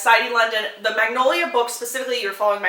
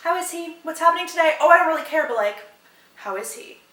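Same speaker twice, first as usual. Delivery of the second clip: mock Magnolia; 5 semitones higher than usual. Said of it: "she's always just like".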